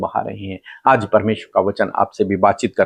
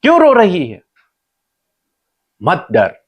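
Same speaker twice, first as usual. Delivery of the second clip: high, raised preacher's quote; God questioning Hagar; 8 semitones higher than usual. Retold or imitated. God questions Hagar lost in the wilderness, high pointed questioning. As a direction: voice God's questions high, with pauses between. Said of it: "परमेश्वर से कहते हैं".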